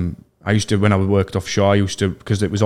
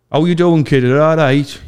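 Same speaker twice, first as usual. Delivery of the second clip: higher, put-on dad voice; pretend dad; 5 semitones higher, 4 dB louder, slower than usual. Fake dad greeting the chef on a prank call, put-on voice. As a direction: greet as a mate's dad on the phone. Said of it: "I'm gonna pretend to be his dad".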